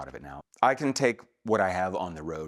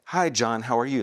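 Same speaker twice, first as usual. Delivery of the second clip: bored read; 5 semitones higher, 5 dB louder than usual. Retold or imitated. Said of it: "I was just getting so bored".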